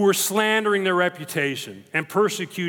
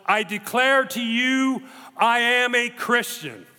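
higher, slow, clear proclamation; a mild retold yell of defiant faith; ringing declaration; 4 semitones higher, slower than usual. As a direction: declare it like a martyr, clear as a bell. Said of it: "with a loud voice, clear as a bell, he yelled".

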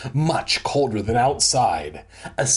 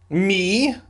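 ME pitched up high as an incredulous question; stressed in italics; 7 semitones higher than usual. A narrator's reading. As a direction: punch ME like italics, high and rising.

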